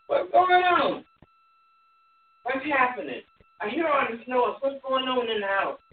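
high, sharp rising questions; puzzled older brother. Retold or imitated. Older brother asking a servant about the party, puzzled. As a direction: ask it like you can't believe the noise. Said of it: "I'm gonna paraphrase".

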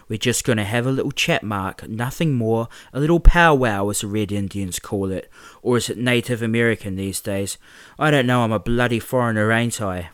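lightly voiced sneering bully, mock-friendly; a hint of a smug thug playing nice; menacing bully. James dragging Mark to the park, lightly voiced mock-friendly menace.

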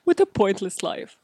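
quoting Come Dine With Me. Retold or imitated. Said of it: "the reference from Come Dine With Me".

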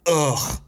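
mock groan of disgust; disgusted ugh. Critic mimicking the comedian's disgust at Black people, disgusted groan. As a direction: let out an ugh of contempt. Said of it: "listen to the disgusted".

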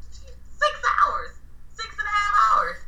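high, disbelieving repeat; laughing disbelief at the distance; incredulous. Real, not acted. Stresses how far he drove.

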